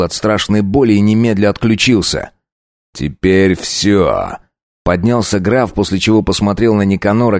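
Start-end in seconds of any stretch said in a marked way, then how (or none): 2.9-4.4 cold finality. Acted. Count ends the beating.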